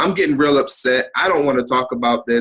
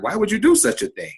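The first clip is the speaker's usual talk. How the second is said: incredulous question; 8 semitones higher than usual. Retold or imitated. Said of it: "we asked her".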